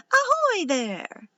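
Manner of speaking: loud, high, drawn-out hail; hailing call. A narrator's reading. Pirate girl greets twins over the fence, hailing call. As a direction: sing out a slow pirate greeting.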